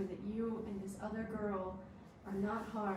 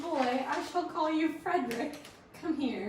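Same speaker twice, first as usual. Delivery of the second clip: lordly master; 6 semitones higher, 9 dB louder than usual. Acted. Noble addresses his goblin servant.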